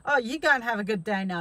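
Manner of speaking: mock-polite sarcastic send-off; sweet words, sneering underneath; sarcastic farewell to a rude man. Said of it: "get sarcastic".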